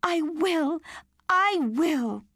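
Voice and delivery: put-on a girl agreeing with all her heart; eager cry. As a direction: promise it with rising excitement. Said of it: "she cried".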